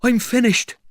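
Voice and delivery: high, loud cry of defeat; despairing tramp. Acted. Tramp nursing his wounded toe, despairing. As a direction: give up in a high wail. Tramp hit by stones gives up.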